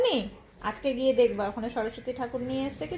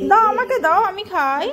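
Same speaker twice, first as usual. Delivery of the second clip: playful begging; 9 semitones higher, 12 dB louder than usual. Pretend. Mother playfully begging for chocolate.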